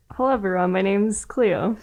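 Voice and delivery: flat, bored announcer voice; deadpan, no energy at all; monotone voice. Acted. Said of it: "Cleo's a little bit too monotone".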